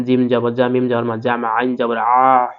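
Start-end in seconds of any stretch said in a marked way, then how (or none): 2.0-2.5 "আ" sounded from the middle of the throat; Arabic ayn on a held "আ". Shown as a demonstration. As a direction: squeeze "আ" out from mid-throat. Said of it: "হলকের মধ্যখান থেকে".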